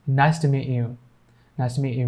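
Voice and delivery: "meet you" as one word, like "mee-you"; silent T, linked. Shown as a demonstration. Teacher repeating "meet you" as one word, silent T. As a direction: drop the T of "meet" and link into "you". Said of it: "me and you will be one single word".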